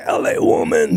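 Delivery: high shouted song title; shouted request. Retold or imitated. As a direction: yell the title across the room. Friend shouts his song choice.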